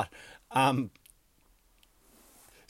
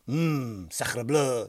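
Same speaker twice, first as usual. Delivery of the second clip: mock French; much slower than usual. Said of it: "France is like".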